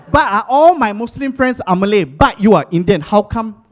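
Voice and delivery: loud puzzled friend; hammed-up baffled question; mock earnest friend. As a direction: friend loudly asking why an Indian is Muslim. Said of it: "My friend, very smart".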